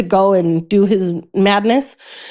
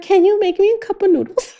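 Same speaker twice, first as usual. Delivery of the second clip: high, pleading ask; whiny little-brother voice; 11 semitones higher than usual. Retold or imitated. Imitating her brother asking her to make his noodles, high and whiny. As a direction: do a helpless brother begging for food.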